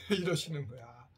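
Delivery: usual speaking voice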